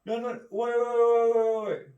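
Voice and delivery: hammed-up frantic halt; mock panicked wait. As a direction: cut in high and loud, mock panic. Mock guy doubting the accuser.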